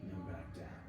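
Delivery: calm, unhurried relaxation-exercise voice; guided body scan. Acted. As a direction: guide them gently through each breath. Leads breathing body scan.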